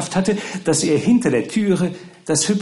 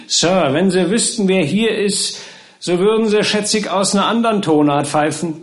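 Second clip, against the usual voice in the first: higher-pitched, lively servant voice; eager cheeky servant; 7 semitones higher, 4 dB louder than usual. Acted. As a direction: tease your master with a secret to reveal. Servant eagerly teases his master.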